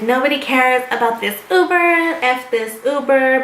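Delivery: lightly imitated dismissive griping; mock trash talk. Friend climbing into the Uber while griping, imitated dismissively. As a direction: mimic her scorn, dragging out the last phrase. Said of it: "she's talking crap about the Uber".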